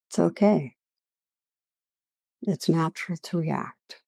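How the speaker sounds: unhurried meditation guiding with long pauses; guided meditation. Real, not acted. Teacher leading listeners through a practice on judgment, guided meditation. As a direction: lead listeners gently inward, leaving long silences.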